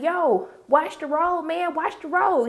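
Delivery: slow, stretched-out mock warning; drawn-out retold warning. Paper Boi warning the driver to watch out, drawn-out mock warning. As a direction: imitate a passenger dragging out the warning.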